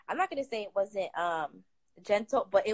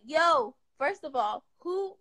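startled voice climbing higher; shocked, rising high; 7 semitones higher, slower than usual. Retold or imitated. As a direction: caught off guard, voice rising. Retold shocked reaction.

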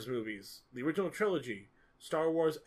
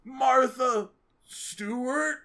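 drawn-out, much higher, louder mock cry; shouting that name; 11 semitones higher, 8 dB louder, much slower than usual. Superman stuck there shouting the name, hammed-up slow wail. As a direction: wail the name slowly, hamming it up. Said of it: "shouting that name".

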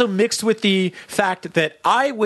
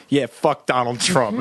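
A rapper's quote; 6 semitones lower, slower than usual. Retold or imitated. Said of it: "And he was like".

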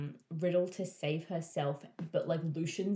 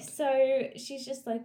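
laughing; 9 semitones higher, 6 dB louder, slower than usual. Real, not acted. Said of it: "I can't even".

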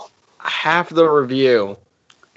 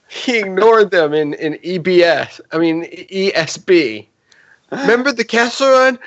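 high grape voice; Member Berries voice; 7 semitones higher than usual. Retold or imitated. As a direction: keep the berry pitch up. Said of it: "Try it again".

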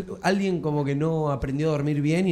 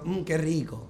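lighter mocking repeat of the ad line; half-hearted mock commercial; 3 semitones higher, slower than usual. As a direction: tease the ad line back. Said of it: "estás diciendo".

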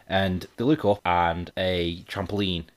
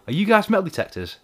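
high-pitched mock passer-by's question; acted joke question; 12 semitones higher, 4 dB louder than usual. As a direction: put on a high, nosy questioner. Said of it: "When they go".

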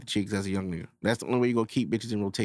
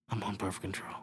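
much softer, low and sly; coy girl's reply; 5 semitones lower, 12 dB quieter than usual.

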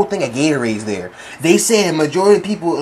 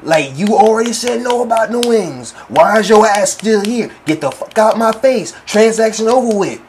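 slow, raised-pitch telling-off; acted-out exasperated dismissal; fed-up confrontation; 4 semitones higher than usual. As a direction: draw out each demand, fed up. Acted quarrel with customer.

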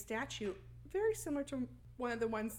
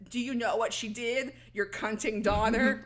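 demon voice; 6 dB louder than usual. Retold or imitated. Demon taunts Chris, retold.

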